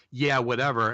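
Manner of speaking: mock-cocky, dismissive brush-off. Medium imitating a client's dead stepfather, cocky. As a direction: toss it off like a cocky know-it-all. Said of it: "would talk like that, really cocky".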